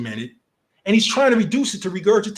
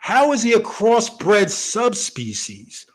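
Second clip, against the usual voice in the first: slow, mocking echo of the phrase; incredulous repeat; 2 semitones higher, much slower than usual. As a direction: drag it out like you can't believe it was said. Repeating the host's phrase in disbelief.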